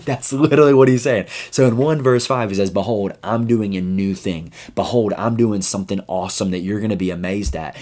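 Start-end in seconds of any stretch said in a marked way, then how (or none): 2.7-7.8 inspirational quote voice. Pretend. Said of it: "that might sound so hopeful".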